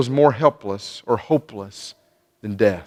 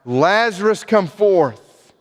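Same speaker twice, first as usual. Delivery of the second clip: higher-pitched, restrained calling out; mock yell, raised in pitch more than volume; retold yell; 6 semitones higher, slower than usual. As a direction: summon someone without really shouting. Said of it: "he yells out".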